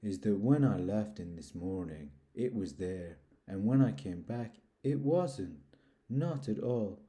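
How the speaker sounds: understated mournful donkey; a touch of gloom, sighing it out; mildly woeful, resigned; melancholy Eeyore. Acted. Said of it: "in his most melancholy voice".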